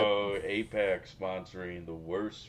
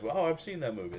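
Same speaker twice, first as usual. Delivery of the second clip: excited Indian guy; 8 semitones higher than usual. Acted. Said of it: "he's super excited because he's like".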